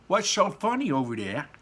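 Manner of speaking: put-on high, loud puzzled girl; Violet voice. A narrator's reading. Violet asks about the laughing Oompa Loompas, high and puzzled. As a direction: call out, puzzled. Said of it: "said Violet Beauregard".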